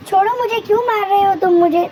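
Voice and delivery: high, loud panicked plea; little bird shrieking to the kites to let go; frightened cry. Acted. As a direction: cry out in fear as you're attacked.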